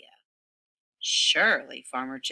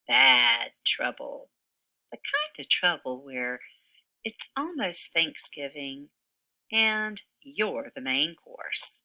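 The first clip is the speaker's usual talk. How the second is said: lively read-aloud storytelling voice; story narration for children. A narrator's reading. Teacher reading a picture book to kindergarteners, animated narration. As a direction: tell the story to a room of little kids.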